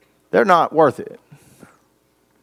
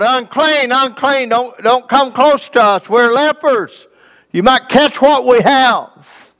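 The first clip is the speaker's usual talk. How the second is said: higher, carrying call from a distance; lepers crying out; 6 semitones higher than usual. Retold or imitated. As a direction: warn people off from afar, pleading. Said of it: "and they cried out".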